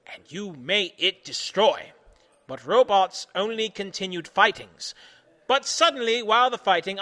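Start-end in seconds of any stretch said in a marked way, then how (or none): 0.1-1.9 loud scolding. Acted. Continues yelling.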